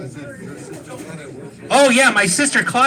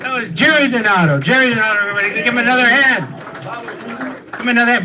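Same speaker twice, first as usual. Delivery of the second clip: emcee applause call; faster than usual. Real, not acted. Host calls for applause.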